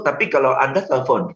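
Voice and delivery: normal talking voice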